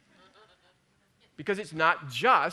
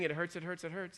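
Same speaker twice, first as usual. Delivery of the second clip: "It hurts" repeated softer and dropping away; quiet inner voice; 7 dB quieter than usual. Retold or imitated. Preacher voicing the mind's doubt, a quieter fading murmur. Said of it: "My mind is saying".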